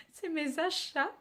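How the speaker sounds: laughing correction, "achats" with clear sh; "achats" said right through a laugh, sh for the ch. Real, not acted. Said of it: "C'est un cheveu sur la langue".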